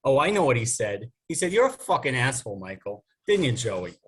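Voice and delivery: lightly attempted Jersey accent; a hint of Jersey in a sister's voice; Janie. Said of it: "gonna try to do some Jersey accents".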